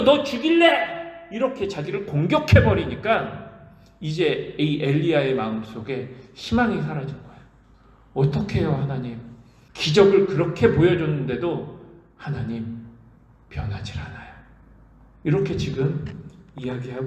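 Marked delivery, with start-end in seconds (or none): 0.0-1.0 higher, slow menacing "너 죽일래?"; menacing threat. Acted. The queen threatening Elijah, a slow, higher menace. 8.1-14.3 despairing lament. Acted. Elijah despairs to God.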